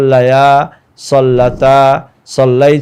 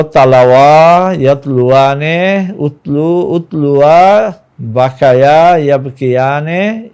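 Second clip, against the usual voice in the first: steady chant of Arabic verb forms; lesson recital. Shown as a demonstration. Teacher reciting Arabic conjugations to students in lesson voice. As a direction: rattle off the paradigm like a drill.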